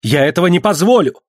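the son flares up in defiance; flushed angry shout; angry outcry. Acted. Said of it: "вскричал он".

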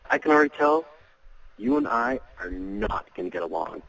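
teasing with a smile; playful tease. Shown as a demonstration. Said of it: "you're saying this with a smile on your face".

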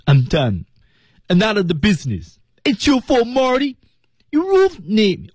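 key words like "fault" and "ruined" pitched high and stretched; magnify "done", "fault" and "ruined" with high falling stress; keyword stress. Shown as a demonstration. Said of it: "需要关键词的突出".

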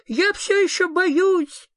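high, loud, slow scared shout; frightened cry. Acted. Sniff shouts at the ghost that he is still scared, high and loud. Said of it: "крикнул Зверок-Шнырок".

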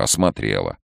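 ordinary delivery, nothing marked

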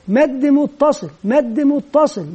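"مد متصل" said slowly and deliberately, each word laid out; slow teacher demo. Shown as a demonstration. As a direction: spell out "مد متصل" slowly for children to copy. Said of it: "ثم يضيف لها كلمة مد". (نطق بطيء واضح لـ"مد متصل")

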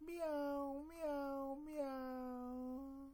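squeaky kitten meow; cat meowing. Acted. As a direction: mew like a little cat. Acting the cat's sound.

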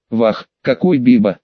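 put-on tipsy exclamation with a Caucasian accent; drunk Caucasian accent. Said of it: "пьяно воскликнул я".

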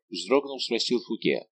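plain reading voice

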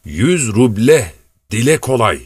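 slow, muttered complaint to himself; grumbling. A narrator's reading. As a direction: grumble it slowly under the breath. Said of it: "diye homurdanıyordu". (ağır ağır homurdanarak)

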